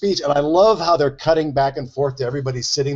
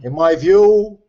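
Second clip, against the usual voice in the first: put-on Brooklyn accent; 2 semitones higher, 5 dB louder, slower than usual. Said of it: "It's the Brooklyn Jew".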